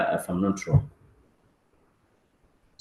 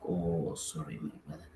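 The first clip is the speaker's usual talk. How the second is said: quiet, soft apology; soft sympathy; 6 semitones lower, 13 dB quieter than usual. Retold or imitated. Leader consoling a prospect who lost money, soft sympathy. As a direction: console the hurt prospect gently. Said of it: "You're like".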